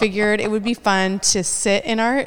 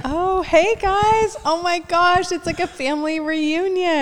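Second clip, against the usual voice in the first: excited greeting; 10 semitones higher, slower than usual. Real, not acted. Excited greeting of reunited crew.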